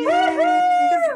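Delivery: very high squealed cheer; mock excitement. Host cheering for Big G's report on cue, playfully excited. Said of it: "have to be really excited about it".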